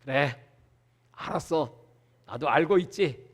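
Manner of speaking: God calmly assuring the prophet, low and soft; God answering. Retold or imitated. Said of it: "하나님이 그걸 다 들으시더니".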